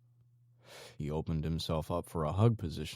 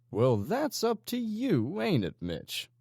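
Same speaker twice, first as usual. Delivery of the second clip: menacing instruction; 5 dB louder, slower than usual. Acted. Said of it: "Legion instructed".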